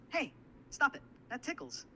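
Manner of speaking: high, loud mock protest; acting tickled. Assistant trying the tickle act again, high mock protest. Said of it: "Let's try this".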